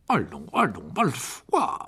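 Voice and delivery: a faint smile in the voice; slight smile. A narrator's reading. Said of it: "en laissant un sourire s'esquisser".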